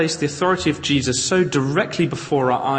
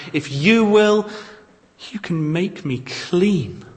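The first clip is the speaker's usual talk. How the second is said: higher, louder desperate plea; pleading cry; 6 semitones higher, 5 dB louder than usual. Retold or imitated. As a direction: beg for healing from the knees. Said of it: "and so he cries out".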